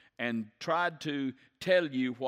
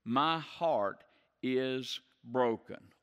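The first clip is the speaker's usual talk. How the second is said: heavy sorrow; slower than usual. Retold or imitated. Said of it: "he moves to heaviness".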